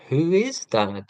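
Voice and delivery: lightly voiced puzzled child; mildly put-on kid's question, swooping up then dropping; imitating his kids. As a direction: lightly mimic a kid asking who someone is. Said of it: "If the question goes from where to who".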